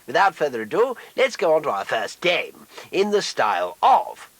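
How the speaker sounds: upbeat host introduction; game show host. Acted. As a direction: welcome the audience like a TV host.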